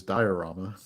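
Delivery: diorama as die-uh-RAH-muh; proper pronunciation. Shown as a demonstration. Host insisting on the proper name, diorama said die-uh-RAH-muh. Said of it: "what it's properly called".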